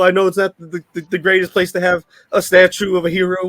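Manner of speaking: a touch of tearful pleading; mock crying. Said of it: "and he's crying. He's like".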